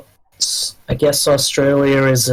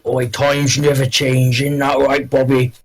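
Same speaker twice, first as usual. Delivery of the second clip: mock Australian. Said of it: "our ancestors are just like".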